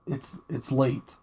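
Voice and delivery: soft and slowed, trailing off; quiet late-night voice. Real, not acted. Reviewer keeping voice down late at night, soft and slow. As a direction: hush it down like it's late at night. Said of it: "I know I'm not speaking very loudly".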